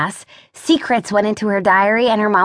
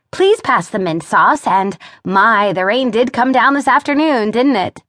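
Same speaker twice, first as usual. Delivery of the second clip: stilted small talk; 2 semitones higher than usual. Acted. Stilted dinner small talk voiced.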